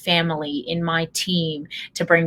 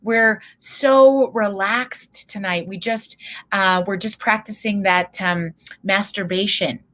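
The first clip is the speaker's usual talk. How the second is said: sweet mom; 4 semitones higher, 4 dB louder than usual. Retold or imitated. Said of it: "she says".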